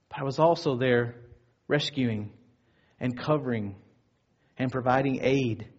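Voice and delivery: soft, low, unhurried comfort; quiet reassurance. Retold or imitated. God tells shooting victims of his presence, quietly reassuring. God's comforting answer to the hurting.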